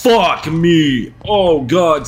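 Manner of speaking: startled loud cry; scared yelp. Real, not acted. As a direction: yelp in real fright. Jump scare in horror game.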